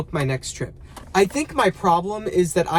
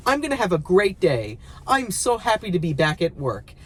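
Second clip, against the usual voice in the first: fake-happy, slightly higher pitch; forced cheer; 3 semitones higher than usual. Worker pretending to be glad to be back, forced cheer. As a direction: talk yourself into a great day unconvincingly. Fakes cheer, then admits lying.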